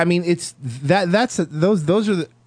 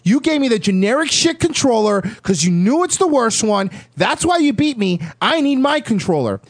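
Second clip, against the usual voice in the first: high, indignant gamer excuses; sore loser's complaint; 5 semitones higher than usual. Acted. Gamer blaming the controller after losing, indignant complaint. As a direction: protest the defeat in a raised pitch.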